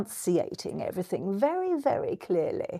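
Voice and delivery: VERY, VERY CLEARLY said softly, each word carefully separated; softly over-enunciate "very, very clearly"; very clear enunciation. Shown as a demonstration. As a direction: demonstrate precise diction on "enunciating everything very, very clearly". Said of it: "listen to that. It's so good".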